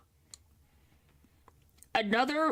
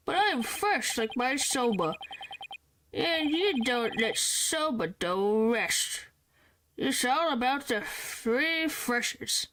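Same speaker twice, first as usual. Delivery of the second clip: put-on drunk voice. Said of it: "do this voice with the frickin' drunkard".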